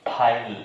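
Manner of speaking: "फाइल" closing on a held l; silent final e. Shown as a demonstration. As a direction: say "फाइल" with no vowel after the l. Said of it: "ई पे उतना नहीं जा रहा".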